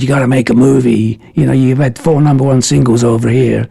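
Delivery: lightly voiced North American accent; a hint of a Canadian guy. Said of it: "Great accent".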